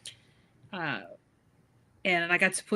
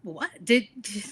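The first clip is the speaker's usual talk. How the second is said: disbelief; 7 semitones higher, 4 dB louder than usual. Retold or imitated. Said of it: "And I was like".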